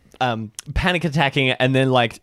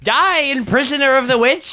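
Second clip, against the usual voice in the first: war cry; 11 semitones higher than usual. Acted. Flurbert attacking, war cry.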